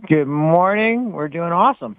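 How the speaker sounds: slow, booming announcer greeting; big announcer voice. Pretend. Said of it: "I'm working on my announcer voice".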